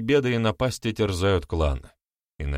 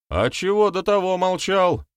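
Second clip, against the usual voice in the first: high-pitched surprised question; 12 semitones higher, 4 dB louder than usual. A narrator's reading. Someone in the crowd questions the shaman, surprised. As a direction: ask it in startled disbelief. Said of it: "удивился кто-то".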